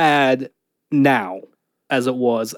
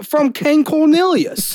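lightly put-on British, pitched up and slowed; British accent, drawn out and pitched up; 11 semitones higher, slower than usual. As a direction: say it like a grand British title. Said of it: "In British".

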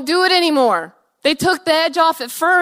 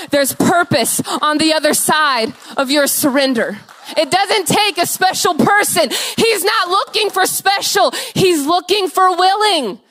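preaching. Acted. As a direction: call them up with growing force. Preaching to congregation at full force.

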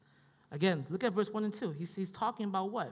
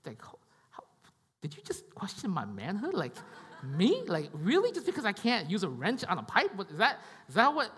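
laughing disbelief. Retold or imitated. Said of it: "I'm like".

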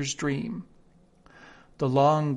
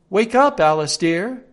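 the sister; 5 semitones higher, 8 dB louder than usual. Acted. Sister wakes Alice.

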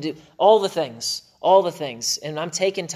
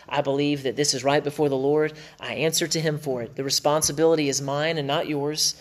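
gentle husband. Retold or imitated. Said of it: "You can just go".

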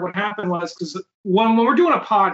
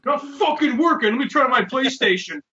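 frustrated troubleshooting; 5 semitones higher, faster than usual. Retold or imitated. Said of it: "you can hear me trying to troubleshoot".

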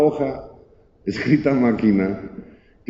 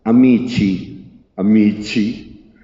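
slow, drawn-out, theatrically sad; hammed-up tearful goodbye to friends; mock sorrowful farewell; much slower than usual. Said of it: "con gran tristeza les dijo".

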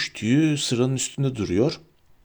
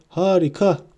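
delighted shout; 6 semitones higher than usual. A narrator's reading. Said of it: "diye bağırdı".

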